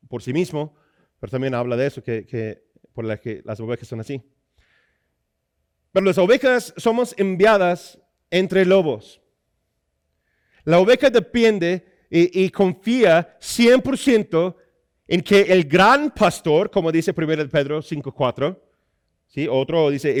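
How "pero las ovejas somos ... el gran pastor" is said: slow, weighted sermon phrases; measured, forceful pulpit delivery; emphatic preaching. Acted. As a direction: preach it deliberately, punching the key words.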